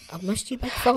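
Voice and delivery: sexy voice. Retold or imitated. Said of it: "he puts on his sexy erotic voice".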